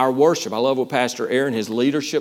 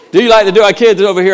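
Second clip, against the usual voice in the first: fast, loud hype-up call; hyped crowd warm up; 4 semitones higher, 7 dB louder, much faster than usual. Real, not acted. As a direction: pump up the crowd. Pastor revving up congregation.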